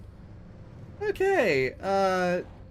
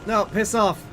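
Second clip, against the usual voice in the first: scared horror game streamer; 7 semitones higher, 6 dB louder than usual. Real, not acted. Yelling at the chasing storm.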